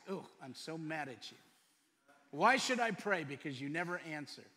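acting out an exasperated complaint; mock impatience. Preacher voices an impatient believer complaining to God, mock exasperated. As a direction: play fed up, with loud bursts of protest. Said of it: "Or is it impatience?".

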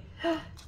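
soft, high gasp of delight. Real, not acted. Admiring her friend's gift, delighted gasp. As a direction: gasp softly at a lovely gift.

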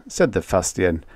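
ordinary delivery, nothing marked

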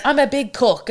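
high fake Greek accent; mock a celebrity's muddled Greek accent; Lindsay Lohan. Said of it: "What's this accent".

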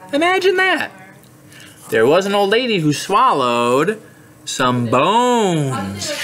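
lively picture-book narration; read-aloud to children. A narrator's reading. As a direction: read it to little kids with bounce. Reads story to children.

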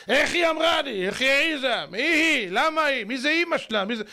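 high, offended string of questions; acted indignation. Proud husband fuming about what his wife said, indignant.

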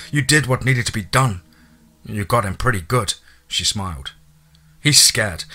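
gently voiced female character; Tess's voice. Tess speaks to the narrator.

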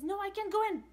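high scared no; frightened shadow. Acted. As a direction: refuse in fright. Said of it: "She says".

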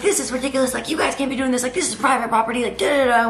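high-pitched imitation of a scolding neighbor; mock indignant complaint. Old lady complains about private property, mock indignant. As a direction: scold them in a mocking old-lady impersonation.

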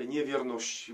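usual speaking voice

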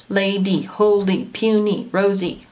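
"Lady, holy, puny, rosy" each said as two distinct beats; two clap words. Shown as a demonstration. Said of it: "In other words, they're two syllable".

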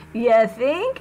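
dry sarcastic quip. Acted. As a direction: throw it back with a smirk. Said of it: "he said sarcastically".

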